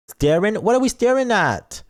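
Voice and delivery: high, loud question; mock alarmed outburst; high confused call-out; startled. Real, not acted. Reacting to staring.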